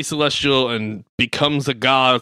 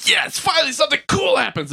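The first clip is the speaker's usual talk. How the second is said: mock excited shout; 14 semitones higher than usual. Bored moviegoers finally cheering, a high excited shout. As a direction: yell it like bored fans finally getting action. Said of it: "we're all like".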